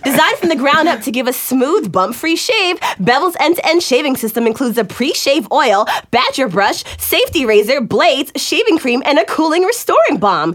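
light upbeat ad delivery; exciting commercial read. Pretend. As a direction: list the products like a TV ad. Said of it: "read it like a exciting commercial".

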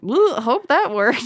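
mock worried aside. Acting heroine's nervous aside.

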